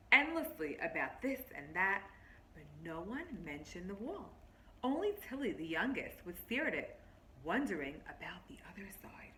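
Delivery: lightly voiced story narration, drawing them in; reading to children. Teacher reading a picture book to her class, storybook voice.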